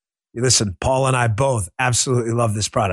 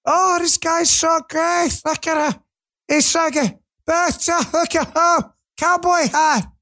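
much higher, slow gushing fan voice; mock starry-eyed fan; 14 semitones higher, slower than usual. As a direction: swoon over the politician in a mocking high voice. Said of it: "they love politicians".

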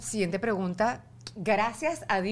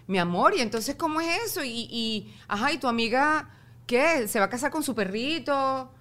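playful teasing mother's voice; joking mother; 2 semitones higher, 4 dB louder than usual. Retold or imitated. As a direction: tease her lightly, half joking. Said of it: "la llevé como a la risa". (madre bromeando con su hija)

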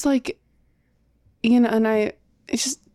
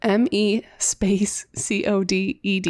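spelling it out; slower than usual. Shown as a demonstration. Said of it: "Spell it".

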